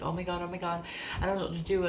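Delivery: high-pitched mock panic; panicking cousin. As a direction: imitate a cousin fretting in a high voice. Cousin panicking over the news.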